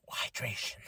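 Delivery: hushed, voiceless "hydration"; imitated catchphrase. Host re-enacts wrestler after chugging water, voiceless "hydration". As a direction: force out "hydration" with no voice, just breath.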